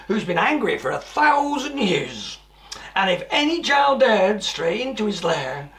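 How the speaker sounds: put-on lively rhyming read-aloud for children; a storyteller sharing a rhyme with small children; storybook reading. A narrator's reading. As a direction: read the verse like a bedtime story. Reads rhyming verse of book.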